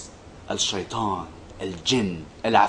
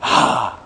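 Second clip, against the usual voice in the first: yawn sound; 5 semitones lower than usual. Retold or imitated. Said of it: "during the act of yawning should say".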